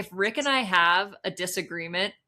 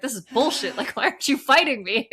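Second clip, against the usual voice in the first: raised, exasperated mock outrage; acted complaint, building louder; indignant; 4 semitones higher, 5 dB louder than usual. Partner demanding that he fight back, indignant.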